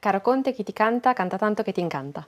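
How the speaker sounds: starts steady, then rattles off fast; tongue twister speeding up. Shown as a demonstration. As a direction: speed up through the last line. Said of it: "we will ask you to say it very quickly".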